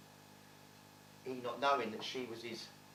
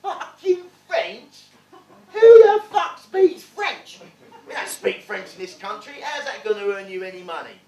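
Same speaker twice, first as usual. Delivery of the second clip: a dad exploding at the idea of French; furious dad; 6 semitones higher, 20 dB louder than usual. Retold or imitated. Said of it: "He went".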